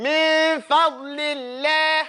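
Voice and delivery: very slow "Min fadlillah", front final "laah"; chanted "Min fadlillah" with light lam. Shown as a demonstration. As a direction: stretch "Min fadlillah", thin l at the end. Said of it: "You hear the difference?".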